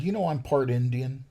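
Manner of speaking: hammed-up provocative commie act; playing the commie. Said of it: "started playing the commie thing".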